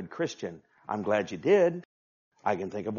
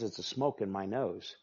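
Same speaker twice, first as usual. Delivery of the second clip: low, soft voice of God; God speaking low and soft, before the shout; quiet voice of God; 3 semitones lower, 6 dB quieter than usual. Acted. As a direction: let God's words drop softly. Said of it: "God says".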